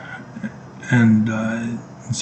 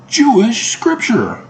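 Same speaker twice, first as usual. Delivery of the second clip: breathy whisper; 12 semitones higher, slower than usual. Real, not acted. Climax of rhetorical question.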